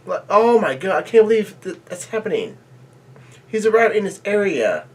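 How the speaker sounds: high-pitched, giddy amazement; excited disbelief. Real, not acted. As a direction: marvel at it in a high voice. Thrilled reaction to character's return.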